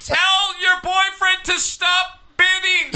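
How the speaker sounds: mock yell. Yelling at caller's girlfriend.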